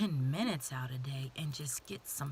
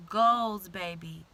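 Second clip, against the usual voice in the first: excited shout; 12 dB louder, slower than usual. Real, not acted. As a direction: punch goals out much louder. Hyping up new year goals.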